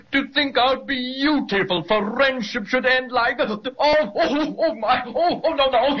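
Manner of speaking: mock distress. Quilt Dragon caught and tickled by the children, high wailing protest. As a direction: ham up the anguish, pleading.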